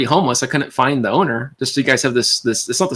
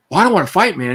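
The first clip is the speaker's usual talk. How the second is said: higher, nervous whiny retreat; whiny backing-down voice; 7 semitones higher than usual. Retold or imitated. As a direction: back off, whining. Bully backing down.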